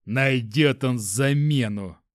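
slow, spiteful mocking tone; malicious smirk. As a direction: sneer it out with contempt. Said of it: "злобно усмехнулся Петрович".

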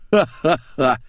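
acted "ha-ha-ha" guffaw. A narrator's reading. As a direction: voice a mocking horse laugh. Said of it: "заржал провожатый".

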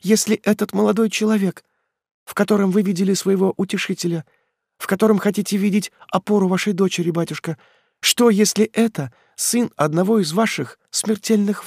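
put-on a frightened girl blurting a secret; anxious young daughter. A narrator's reading.

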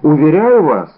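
a flustered tradesman cries out to convince; eager exclamation. A narrator's reading. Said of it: "вскричал Бонасье".

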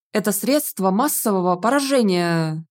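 usual speaking voice

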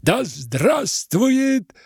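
high, slow, loud rally cry; soaring speech from a platform; orator's cry. Acted. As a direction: proclaim it slowly to the whole square. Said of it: "вскрикивал".

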